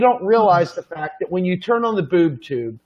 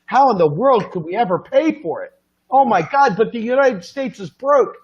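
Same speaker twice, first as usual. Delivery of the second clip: mock worried public; faster than usual. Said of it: "people go".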